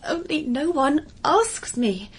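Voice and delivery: slow, grave little complaint; solemn. Acted. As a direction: say it solemnly, drawing it out. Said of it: "Indeed, Miss Solemnity".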